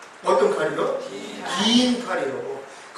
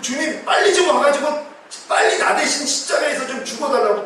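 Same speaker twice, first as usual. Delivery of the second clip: mock urgent plea to the Lord; 재촉하는 기도; 5 semitones higher than usual. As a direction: imitate an impatient believer praying, pitched up. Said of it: "또 하는 거예요". (주님을 재촉하는 기도 흉내)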